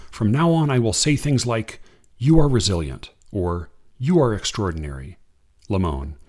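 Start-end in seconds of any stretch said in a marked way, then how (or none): 0.1-5.2 unhurried reading of verse; poem reading. Acted. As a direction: read it like a poem to an audience. Reads a Kaur poem.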